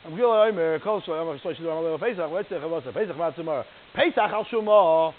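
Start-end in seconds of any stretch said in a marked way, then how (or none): 3.9-5.1 "Al Shuma" stretched out and louder, as a question; drawn-out question. Acted. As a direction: read "Al Shuma" slowly with a question mark on it. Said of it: "question mark".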